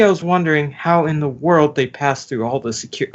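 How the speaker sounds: talking around a lollipop; words muffled by a lollipop in the mouth. Real, not acted. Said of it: "Take the lollipop out of your mouth".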